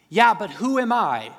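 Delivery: high, loud objection; whiny Moses. Acted. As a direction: push back on God like an anxious man. Moses arguing with God.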